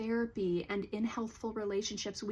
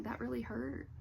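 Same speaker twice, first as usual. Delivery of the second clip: gentle, softer voice, a touch of hurt on "really"; 2 semitones higher, 5 dB quieter than usual. Shown as a demonstration. Therapist showing how to say it without defensiveness, softly hurt. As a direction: let the hurt show softly, not defensive. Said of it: "with just a little bit of heart hurt".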